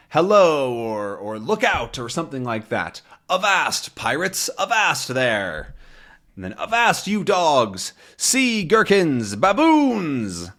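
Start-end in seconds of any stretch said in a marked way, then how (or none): 3.3-5.7 higher then slowing pirate call; lightly hammed pirate hail; pirate captain cry. 6.6-10.5 higher, slow mock pirate insults; hammed-up pirate rant at the landlady and locksmith; pirate yelling insults. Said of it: "he's yelling threats at them".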